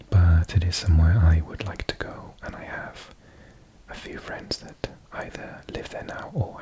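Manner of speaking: breathy whispered ASMR reading, close to the mic. Acted. ASMR host reading travel facts to viewers, whispered. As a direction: murmur the facts gently as if lulling a listener to sleep.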